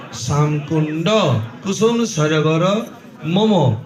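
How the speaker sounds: soft, slow Sanskrit invocation of sacred rivers; priestly invocation. Acted. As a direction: call the holy waters in one by one, hushed. Priest invokes holy waters.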